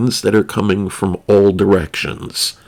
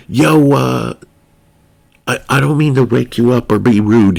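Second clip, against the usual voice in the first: put-on a light New York tough-guy accent turned polite; lightly a polite wannabe gangster; 3 semitones higher, 3 dB louder than usual. The Italian apologizes for waking his friend, in a light, polite New York gangster accent. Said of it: "He had a weird politeness".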